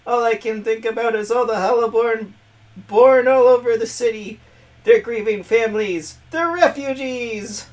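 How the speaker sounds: high, loud cartoon villain voice; Skeletor. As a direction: keep the screechy skeleton villain going. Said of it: "I'm gonna give her Skeletor's voice".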